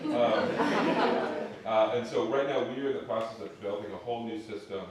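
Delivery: a laugh running through the words; laughing while talking. Real, not acted. Panelist laughing at her own plug for the project, laughing while talking.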